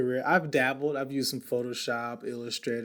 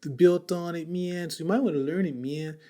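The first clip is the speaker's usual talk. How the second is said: surfer dude; 2 semitones higher than usual. Retold or imitated. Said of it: "Okay, I'm a surfer now".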